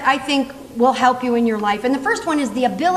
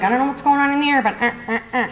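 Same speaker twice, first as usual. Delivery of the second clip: awkward hesitation; faster than usual. Retold or imitated. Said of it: "you're like".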